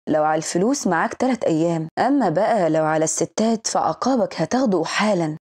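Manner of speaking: a touch of a stern, masculine tone; understated authoritative man's voice; manly voice. Acted. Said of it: "وصوته الرجولي".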